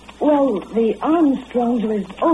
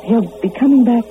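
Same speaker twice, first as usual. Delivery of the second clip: louder, insistent self-reassurance; insistent hope; 5 dB louder than usual. Acted. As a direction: insist on it, pushing the words out louder. Waiting girl insists he returns.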